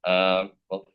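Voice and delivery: raspy voice. Real, not acted. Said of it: "excuse my raspy voice".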